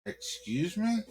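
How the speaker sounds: a shocked, rising "excuse me?" flung back at the insult; incredulous. Acted. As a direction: excuse me? rising sharply, high and outraged. Same retort, voiced in disbelief.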